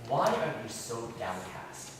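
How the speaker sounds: soft, tender question to a sad friend; gentle. Shown as a demonstration. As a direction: ask it like a caring counselor. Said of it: "This is actually a very gentle word".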